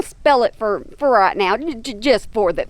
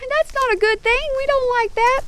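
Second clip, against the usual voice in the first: much higher, cooing pet voice; pet-talk sympathy; 11 semitones higher than usual. Real, not acted. Sympathizing with her hurt animal.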